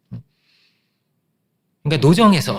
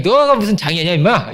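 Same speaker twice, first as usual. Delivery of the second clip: put-on higher, louder blunt jab at a young man; gruff mock scolding; 3 semitones higher, 4 dB louder than usual. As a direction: tease him like a rough big brother. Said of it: "이랬다는 거예요".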